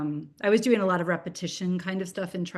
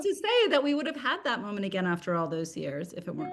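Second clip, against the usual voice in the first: higher, laughing through the words; real laughter breaking into the sentence; 5 semitones higher than usual. Real, not acted. Author sharing a cherished family memory, laughing.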